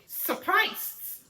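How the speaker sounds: lifted, high-pitched word; surprised. Shown as a demonstration. Demonstrating the sign for surprised.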